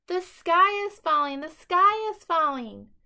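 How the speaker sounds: high, loud frantic shrieking; panicked scream. A narrator's reading. Scared chick screaming to everyone as he runs. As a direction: shriek it while running in panic. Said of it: "Turkey Lurkey screamed".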